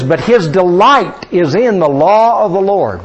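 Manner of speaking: slow, measured reading of the verse; solemn scripture recital. Acted. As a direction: read the verse out deliberately. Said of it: "Psalm one two says".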